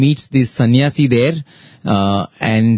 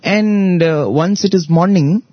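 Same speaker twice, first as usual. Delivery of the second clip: raised, lively lecturing king voice; king scolding; 7 semitones higher than usual. Retold or imitated. King chiding the weeping messenger, raised and emphatic.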